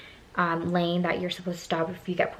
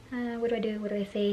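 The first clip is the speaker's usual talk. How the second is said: soft, anxious thinking aloud; panicky aside; 3 semitones higher, 5 dB quieter, faster than usual. Retold or imitated. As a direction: fret under your breath. Retold panicky inner thoughts.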